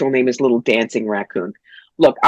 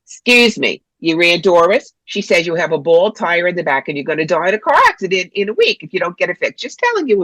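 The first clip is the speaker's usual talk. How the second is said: mock medium accosting a stranger, pitched up; pushy TV medium; 3 semitones higher than usual. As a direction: act out an intrusive medium's spiel. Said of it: "she walks up to them and goes".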